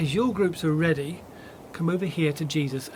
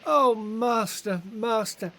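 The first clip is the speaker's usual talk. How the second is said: raised, pleading, grief-stricken cries; anguished lament; 5 semitones higher than usual. Acted. A follower cries out to his Master in grief. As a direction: call out to the Master in shock and grief. Grieving cry at bad news.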